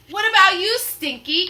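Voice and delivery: high, loud bellow; roar. Acted. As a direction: roar up at the crewman. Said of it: "Captain Bones roars".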